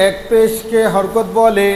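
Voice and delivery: slow chanted class recitation; slow sing-song drill recitation; recited aloud. Shown as a demonstration. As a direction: chant it slowly for the class to repeat. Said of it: "আবার".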